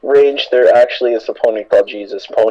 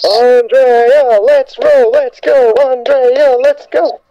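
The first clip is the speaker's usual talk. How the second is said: high, loud, eager urging; excited urging; 10 semitones higher, 3 dB louder, much slower than usual. Real, not acted. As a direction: cheer her on excitedly. Urging friend to talk.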